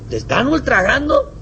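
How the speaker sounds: high, loud quick exchange; mock high dialogue. Missionary and brother exchange, high mock voices. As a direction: bounce question and answer.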